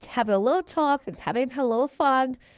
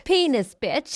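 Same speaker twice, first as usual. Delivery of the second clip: amused friend; 5 semitones higher than usual. Retold or imitated. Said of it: "My friend Pal just laughed".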